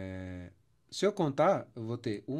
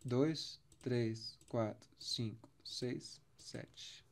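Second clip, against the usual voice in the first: counting syllables, softer and softer into a whisper; fading count; 2 semitones lower, 7 dB quieter, much slower than usual. Shown as a demonstration. Teacher counting the seven poetic syllables, fading. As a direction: count down to nothing. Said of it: "Vamos contar".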